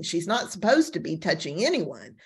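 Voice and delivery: normal talking voice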